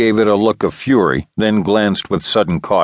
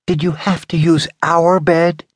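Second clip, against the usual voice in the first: higher, angry half-whispered woman's voice; voiced Candy, angry and hushed; 10 semitones higher than usual. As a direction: hiss it out, furious but hushed. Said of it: "her voice in angry half-whisper".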